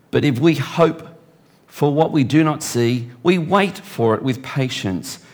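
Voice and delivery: preacher reading Romans to the church; scripture reading. Acted. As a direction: read it out slowly, with weight. Reads scripture aloud.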